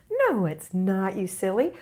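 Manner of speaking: lightly mock-scolding mom to a small child; playful parent. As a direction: brush off the whining with a teasing no. Voices parent answering whining child.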